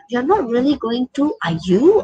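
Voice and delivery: questioning with a touch of blame; blaming intonation. Shown as a demonstration. Teacher shows students an impolite question, blaming intonation. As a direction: put mild blame into the tag question. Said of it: "blaming intonation".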